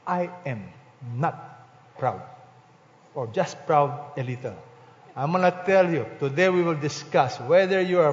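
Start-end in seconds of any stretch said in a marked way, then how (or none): 0.0-4.5 soft, low, halting admission; mock congregant's denial. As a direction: play a sheepish listener, quietly and haltingly. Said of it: "I know you will tell me".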